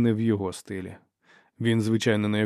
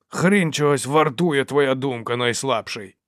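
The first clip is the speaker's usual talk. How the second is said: loud, slow, raised-pitch insult; angry contempt; 4 semitones higher, 5 dB louder, slower than usual. A narrator's reading. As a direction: spit out the insult slowly and loudly. Dow insults the peacemaker. (зневажливо, гучно й повільно)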